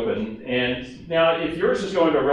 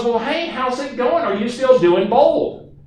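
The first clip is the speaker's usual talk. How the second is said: much higher, chatty caller voice; Barbara's voice; 10 semitones higher, slower than usual. Retold or imitated. Barbara asks Steve if he still teaches Bold, high and slow. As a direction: pitch it way up, slow on the question. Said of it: "I'm gonna talk like Barbara for a minute".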